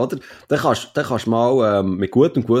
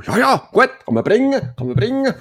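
high, loud put-on voice; squeaky voice granting approval; mock approval; 11 semitones higher, 4 dB louder than usual.

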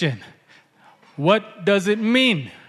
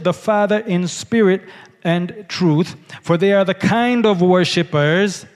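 scripture reading. Acted. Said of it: "he says in verse twenty-three".

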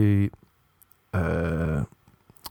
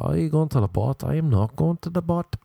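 put-on lilting, higher-pitched stab at a Belfast accent; mock Belfast accent, pitched up; attempted Belfast accent; 7 semitones higher than usual. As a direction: play a Belfast man with a shaky grasp of the accent. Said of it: "with your accent".

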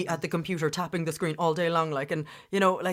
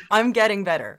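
louder, higher, cheering herself on; proud self-pep talk; 5 semitones higher, 9 dB louder than usual. Retold or imitated. To the host, retelling her own proud self-talk, loud and bright. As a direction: tell yourself you're winning, out loud. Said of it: "I'm like".

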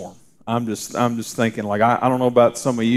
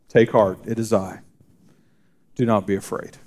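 softer, hushed repeat of the comfort; quiet reassurance; 3 semitones lower, 3 dB quieter than usual. Acted. Pastor repeating Jesus's comfort to the listeners, hushed. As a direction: say it again almost to yourself, softly. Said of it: "repeats the words softer".

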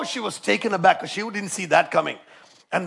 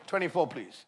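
ordinary talk

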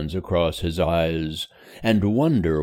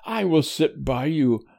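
put-on sweet girl's voice; 11 semitones higher than usual. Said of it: "said Emily in her low, sweet voice".

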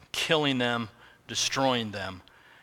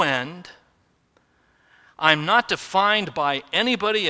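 slow, louder, grand declaration; voicing God, majestic; 3 semitones higher, 4 dB louder than usual. Preacher voicing God declaring his name, slow and grand. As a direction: proclaim it as the eternal God, unhurried and strong. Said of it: "God is saying".

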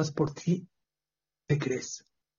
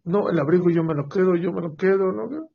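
arguing; 3 semitones higher than usual. Acted. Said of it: "Empezaron a discutir".

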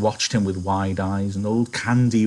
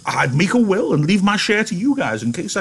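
put-on much higher, quavering old man; old Candy; 10 semitones higher than usual. Candy asking George about the farm, old and hopeful.

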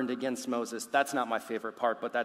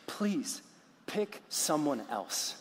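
reluctant plea; slower than usual. Acted. Moses begging God to send someone else, reluctant plea. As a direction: beg off slowly, trailing down.

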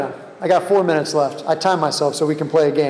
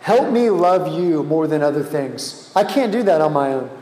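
slow prayer. Shown as a demonstration. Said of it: "I just want you to ask him right now".

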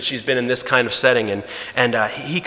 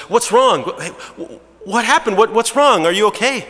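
high, anxious husband asking what's wrong; sudden alarm at his wife's tears; worried husband; 8 semitones higher than usual. Acted. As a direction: woken husband, higher and urgent. Husband woken by sobbing wife.

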